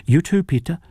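high, coaxing call; eager invitation. A narrator's reading. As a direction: cheerfully draw him onto the floor. Rosa coaxing father to dance.

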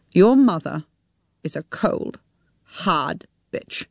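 bitter, dropping to a hissed hush; bitter woman. A narrator's reading. She insults Tim's mother, bitter and hushed. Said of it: "with a mad expression on her face".

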